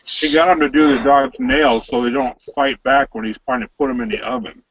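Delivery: talking with mouth full. Real, not acted. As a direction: speak through a mouthful of food. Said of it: "Quit talking with your mouth full".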